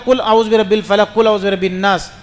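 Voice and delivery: قل recited with a light k as "kul"; thin qaf. Retold or imitated. Imitating a worshipper's faulty recitation, thin qaf. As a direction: imitate misreading قل with a thin front k. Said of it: "قاف کو موٹا نہیں پڑھتا".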